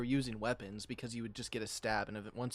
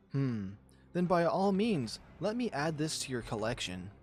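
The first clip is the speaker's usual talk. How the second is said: menacing lioness; 3 semitones higher than usual. Acted. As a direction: relish the threat. Nadja threatens with claws.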